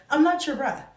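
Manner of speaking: put-on a playful mom scolding her teen; sassy mom comeback. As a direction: put the kid in their place, playfully. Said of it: "that's my favorite thing to say".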